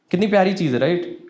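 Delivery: bitter sarcasm. Retold or imitated. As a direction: spit out कितनी प्यारी चीज़ है as a bitter joke. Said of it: "इतना गुस्सा आ रहा था मुझे".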